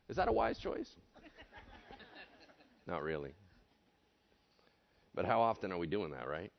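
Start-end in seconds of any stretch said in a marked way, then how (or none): none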